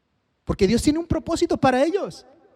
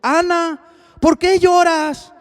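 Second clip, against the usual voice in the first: husband's concern; 5 semitones higher, 3 dB louder, slower than usual. Acted. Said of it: "le dijo".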